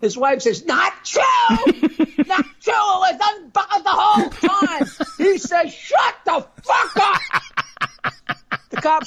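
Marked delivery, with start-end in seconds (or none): 0.7-4.9 higher, contradicting; nagging wife. Acted. 5.7-7.2 higher, slower half-shout; mock snap. Husband snaps again.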